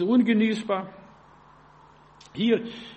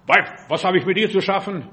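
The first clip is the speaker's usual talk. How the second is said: mildly gruff retort, punched first word; Jesus, brusque; 4 dB louder than usual. Acted. Jesus rebuffing Mary at the wedding in Cana, brusquely. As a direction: hit "Weib" hard, as a curt rebuff. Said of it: "sagt Jesus noch so schroff".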